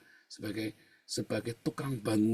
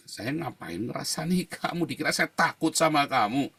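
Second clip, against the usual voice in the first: indignant comeback, growing louder; retold angry retort; 3 semitones higher, 5 dB louder than usual. Preacher acting out an argument with the complainer, indignantly. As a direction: act out a mildly heated challenge. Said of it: "Dia marah-marah, bilang".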